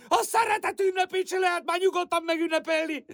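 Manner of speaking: tearful protest. Acted. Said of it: "Mahogy ne sírnék".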